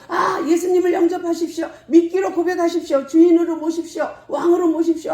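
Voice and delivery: loud, high evangelist's exhortation; acted fervent altar call, pitched high; urgent proclamation. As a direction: call them to commit, driving and fast. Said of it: "하고 막 선포하는데".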